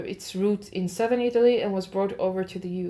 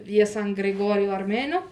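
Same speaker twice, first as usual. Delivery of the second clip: Italian pronunciation attempt; 3 dB louder than usual. Shown as a demonstration. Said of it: "I always do Spanish more Italian".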